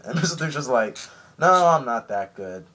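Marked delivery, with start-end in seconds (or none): 1.4-2.7 mock modesty. Mister Three mock modest.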